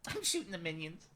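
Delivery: a hint of a tiny girly voice; mock oblivious girl. Imitates oblivious woman against his shouting.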